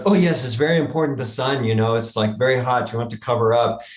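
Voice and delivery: a hint of the jogger's German accent, a touch fast; quickly, with a faint German lilt; lightly German accent. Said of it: "who had the accent".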